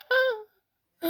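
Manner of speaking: high burst of laughter. Retold or imitated. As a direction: let a shrill laugh out. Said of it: "laughing my freaking ass off".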